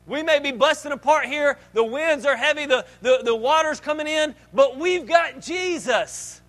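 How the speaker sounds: loud, high rallying cry over the storm; confident shout. Acted. Disciples in a sinking boat cheering each other, loud and high. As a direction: shout faith over the wind, slowing on the promise. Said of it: "They should have said".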